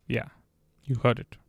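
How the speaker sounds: ordinary delivery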